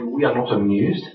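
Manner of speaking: badly faked English accent, like Queen Victoria; horrible English accent. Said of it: "that's a horrible English accent".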